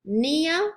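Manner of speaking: "Nia" begun on the N, no P; silent P. Shown as a demonstration. Teacher modelling a suffix for students, silent P. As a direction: say "Nia" with the initial P left silent. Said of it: "you don't pronounce the P".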